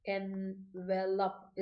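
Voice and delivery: ചെറുതായി മുറിച്ച് "എൻവലപ്പ്" slowly, syllable by syllable. Shown as a demonstration. Teacher showing students the noun, "എൻവലപ്പ്" in slow separate syllables. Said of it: "ഇതാണ് noun".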